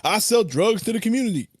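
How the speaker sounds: sing-song blaxploitation character impression; Black Dynamite. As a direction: ham up the movie line, pitch bouncing. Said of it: "from freaking Black Di".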